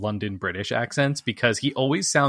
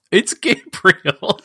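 slow, drawn-out, higher and louder announcement; dramatic reveal; 9 semitones higher, 6 dB louder, much slower than usual. Pretend. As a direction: stretch it out like a big movie reveal. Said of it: "how hard were you expecting him to be like".

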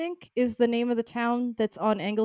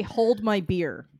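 slow boast; much slower than usual. Retold or imitated. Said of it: "the Welsh say".

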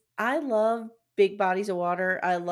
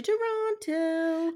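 British accent; 8 semitones higher, much slower than usual. Real, not acted. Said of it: "saying that with the British accent".

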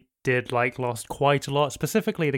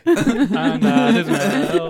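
high, slow cartoon turtle voice; Ninja Turtle voice; 7 semitones higher, 4 dB louder, much slower than usual. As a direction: go full Ninja Turtle for the intro. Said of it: "That almost went Teenage Mutant Ninja Turtle-y".

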